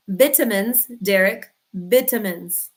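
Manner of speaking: VIT-uh-mins, short i like in Europe; vitamins said the British way, VIT-a-mins. Shown as a demonstration. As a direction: say vitamins like a Scot, short first i. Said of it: "that's how they say it in Europe".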